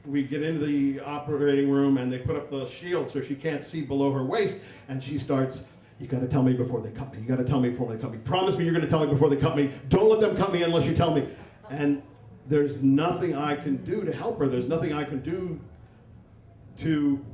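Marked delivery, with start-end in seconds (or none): 6.0-11.3 fast, insistent panicked pleading; panicky. Retold or imitated. Wife begging husband before surgery, panicky. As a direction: plead in a rush, building louder. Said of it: "panicky, on the edge of hysteria".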